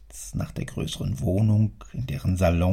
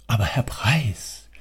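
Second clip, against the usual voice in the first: whispered faint objection; timid protest. Acted. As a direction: object under your breath.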